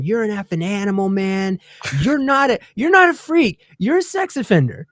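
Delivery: rising into a loud, high mock tirade; chewing him out. To the man on the plane, a retold furious yell. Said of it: "I start chewing this guy out".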